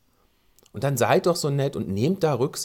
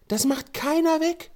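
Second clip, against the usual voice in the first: much higher, slow, disbelieving complaint; indignant; 13 semitones higher than usual. Real, not acted. Host complaining to listeners about the green strip, indignant. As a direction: let the outrage lift the pitch.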